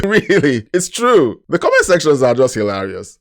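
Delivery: high, loud, laughing reaction; amused laughter. Real, not acted. Host reacting to funny viewer comments, amused and laughing. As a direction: laugh through it, voice jumping up.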